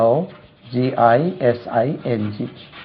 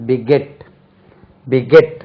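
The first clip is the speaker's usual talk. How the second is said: Beget with the stress on -get, be-GET; teacher modelling be-GET, second syllable stressed; 4 dB louder, much slower than usual. Shown as a demonstration. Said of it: "second syllable stress".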